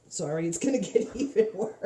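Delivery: nervous laugh. Real, not acted. Nervous laugh during demo.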